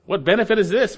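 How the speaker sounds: high, rising questioning; lifted pitch, swooping up on "this"; puzzled objector. Acted. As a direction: challenge it like a doubtful listener. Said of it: "And you say".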